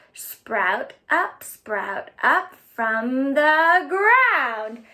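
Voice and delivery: put-on slow, chanting children's poem; a slow chant for little ones to act out; action rhyme. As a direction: draw out each line for the kids to move to. Leads the seed action poem.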